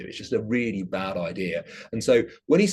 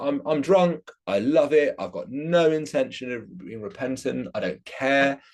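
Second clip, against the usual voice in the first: higher-pitched defiant outburst; acted defiance, pitched up; 6 semitones higher than usual. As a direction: voice a drunk who flatly refuses to repent. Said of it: "just defiantly going to".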